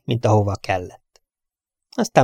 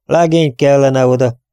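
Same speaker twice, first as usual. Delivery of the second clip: grumbling; 4 semitones higher, 5 dB louder than usual. Acted. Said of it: "morogta a hetven éves Patrick".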